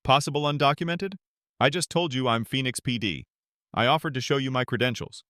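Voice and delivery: tight-jawed incredulous retort; lightly acted outrage at being doubted; indignant disbelief. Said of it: "Mitchell's jaw tightens".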